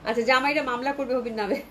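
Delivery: real laughter breaking into the words; laughing. Real, not acted. Seller joking with live viewers about husbands suing, laughing. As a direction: crack up while finishing the joke.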